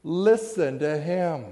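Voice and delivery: slow, solemn voice of God; measured heavenly proclamation; voice from the cloud. Acted. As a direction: let each phrase land slowly from above. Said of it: "this voice comes from the cloud".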